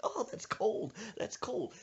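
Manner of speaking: lightly acted cry at sudden cold; yelping victim. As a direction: imitate a man yelping from the cold. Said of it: "He's like".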